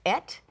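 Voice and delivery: Et with a short e; Hebrew pronunciation. Shown as a demonstration. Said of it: "It is the Hebrew word pronounced".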